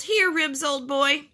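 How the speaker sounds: high-pitched coaxing call; calling the dog. A narrator's reading. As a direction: call your dog over urgently. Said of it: "he yelled".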